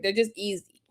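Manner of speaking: a quick confiding whisper; whispered aside. Real, not acted. Host confides to viewers about the channels in a whisper. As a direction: whisper it like a secret.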